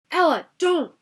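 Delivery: loud sharp warning shout; urgent warning. A narrator's reading. Richie warning Ella away from the chamber, loud. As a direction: stop her before she goes in. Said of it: "Richie warned again".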